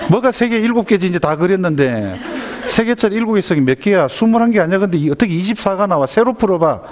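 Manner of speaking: high, exasperated questioning; acted scolding, pitch well up; angry mother. Mother baffled by her child's wrong answer, exasperated. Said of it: "막 화가 나는 겁니다".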